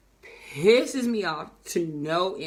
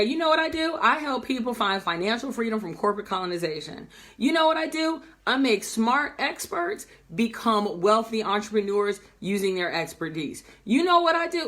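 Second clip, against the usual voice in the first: sure-footed sample pitch; confident pitch demo. Shown as a demonstration. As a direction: demonstrate how to state what you do with conviction. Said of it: "tell me like this".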